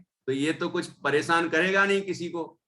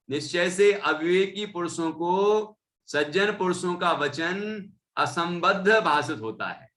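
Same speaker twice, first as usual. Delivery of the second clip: measured, slightly raised recitation; scripture reading; 3 semitones higher than usual. Acted. Teacher reading scripture to listeners, measured recitation. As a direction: read the text out deliberately. Reads scripture passage aloud.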